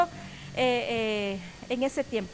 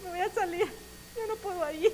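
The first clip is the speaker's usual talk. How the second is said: tag; 5 semitones higher, 3 dB quieter, faster than usual. Retold or imitated. Retells running to her, distraught.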